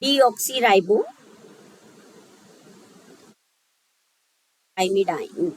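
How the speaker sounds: deoxyribothymidine stretched syllable by syllable, very slowly; teacher dictating a long chemical name slowly; very slow sounding out. Shown as a demonstration. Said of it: "चलिए".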